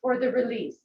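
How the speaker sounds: a playful exclaim of relief from the thighs; mock relieved muscles. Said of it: "that beautiful sigh running through your quadricep muscles going".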